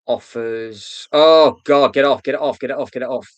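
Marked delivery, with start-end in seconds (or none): 1.1-3.3 loud panicked get-it-off; phobic panic. Real, not acted. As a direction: recoil in disgusted panic. Something vile on screen.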